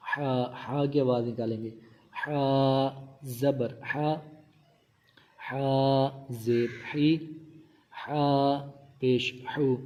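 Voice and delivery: ہا with a breathy Arabic h from mid-throat; throat-made ha. Shown as a demonstration. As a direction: sound ہا، ہی، ہو from the middle of the throat. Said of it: "حلق کے درمیان والے حصے سے ادا کریں گے".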